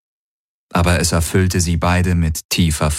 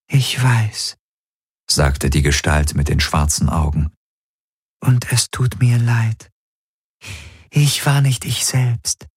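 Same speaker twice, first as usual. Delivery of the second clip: entschuldigende Traumgestalt; 3 semitones higher than usual. Acted. Die Gestalt spricht im Traum. (hohe, langsame Traumgestalt, reumütig)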